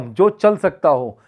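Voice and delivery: slow, spaced-out teaching delivery; slow explanation. Shown as a demonstration. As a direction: draw out चल and सकता for learners.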